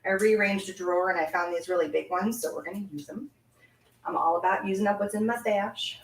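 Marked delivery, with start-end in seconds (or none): 4.0-6.0 real southern US drawl slipping out; casual southern drawl. Real, not acted. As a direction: let a southern drawl creep in. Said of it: "that really had a southern drawl".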